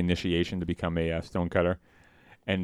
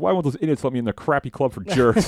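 high, louder indignant rant; imitating Homer; 7 semitones higher, 6 dB louder than usual. Homer rants about the club, high loud outrage. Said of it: "he goes".

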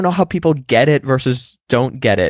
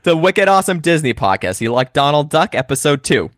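hammed-up Boston podcast host, higher pitched; Boston accent; 4 semitones higher than usual. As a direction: open the show as an excitable Boston bro. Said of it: "you do, you do that accent".

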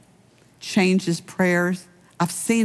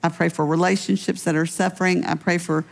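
closing prayer. Acted. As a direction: pray over the congregation gently. Pastor leads closing prayer.

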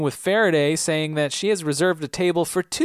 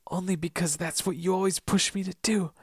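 much higher, louder British whine building to a shout; put-on British accent; 4 dB louder than usual. Daniel yelling at his mother in a hammed-up British accent. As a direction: rant in a shrill British accent. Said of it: "He doesn't have an accent".

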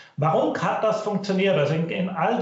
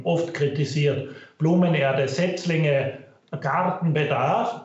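low quality stream. Real, not acted. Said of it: "Bitte entschuldigen Sie die Tonqualität".

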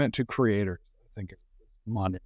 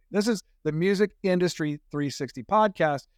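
Music punched higher in the show's name; stress on Music; 5 semitones higher than usual. Real, not acted. Host reminding guest it's a music podcast, stress on Music. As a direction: lean on the word Music, pitched up. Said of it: "emphasis on the word music".

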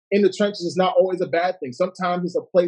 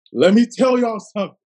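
higher and louder; louder repeat; 4 semitones higher, 5 dB louder than usual. Shown as a demonstration. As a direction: push it up the second time. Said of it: "Guys, let me tell y'all something".

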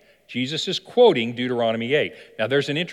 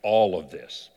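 lower, soft and slow tempting offer; seductive devil offer; 6 semitones lower, 4 dB quieter than usual. Acted. Devil tempts Jesus with the world, low, slow and soft. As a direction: lure him in, low and unhurried. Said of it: "He said".

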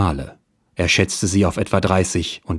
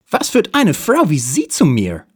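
much higher, louder put-on detective voice; hard-boiled detective; 10 semitones higher, 4 dB louder than usual. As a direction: play the cool private eye, hammed up. Detective Dick voiced by narrator.

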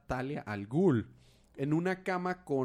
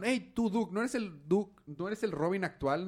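voicing Jason; 7 semitones higher, slower than usual. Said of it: "le dice Jason".

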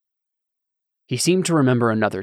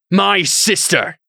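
high, loud, slow cry; a knight screams at the bishop about his sister; 8 semitones higher, 6 dB louder, slower than usual. A narrator's reading. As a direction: scream it at him. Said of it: "Delin screamed".

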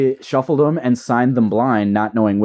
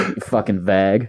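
put-on light Boston accent on vague; 3 semitones lower than usual. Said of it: "you gotta say it in a Boston accent".

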